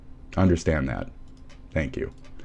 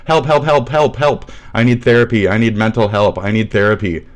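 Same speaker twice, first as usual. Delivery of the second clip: mocking whine; 2 semitones higher than usual. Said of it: "says you".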